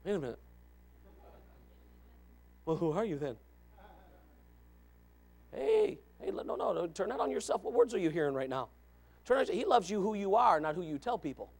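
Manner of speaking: quiet aside. Real, not acted. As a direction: lean in and say it softly.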